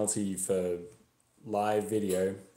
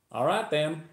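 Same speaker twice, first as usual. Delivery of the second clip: higher-pitched Texan stranger offering help; friendly passing driver; 8 semitones higher, 4 dB louder than usual. Acted. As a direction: ask helpfully, voice lifting high.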